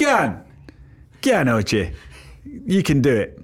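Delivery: tentative Geordie accent on request; attempted Geordie accent. Shown as a demonstration. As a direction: have a halting go at Geordie. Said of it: "Can you do a Geordie accent?".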